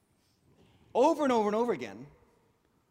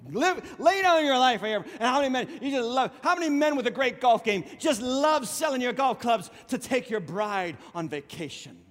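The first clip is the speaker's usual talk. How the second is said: sarcastic; 2 semitones higher than usual. Acted. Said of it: "I'm being sarcastic".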